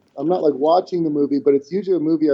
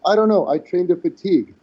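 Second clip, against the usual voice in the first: mock clueless shrug; 4 semitones higher than usual. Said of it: "He goes".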